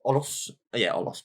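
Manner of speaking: put-on cockney wide-boy voice; spiv accent. Shown as a demonstration. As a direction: say Olos like a London spiv. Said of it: "saying it like spiv".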